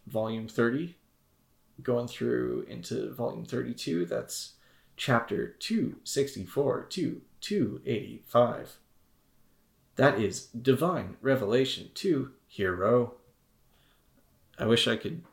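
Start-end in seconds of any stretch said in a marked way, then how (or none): 4.9-13.1 slow, even robot announcer voice. Pretend. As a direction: read it like an automated phone line. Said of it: "You're doing a robot voice".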